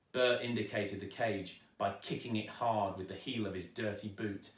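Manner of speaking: usual speaking voice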